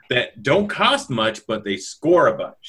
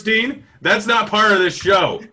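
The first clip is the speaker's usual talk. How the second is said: laughing through the words; 9 semitones higher than usual. Real, not acted. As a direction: laugh while protesting. Laughing objection to cohost.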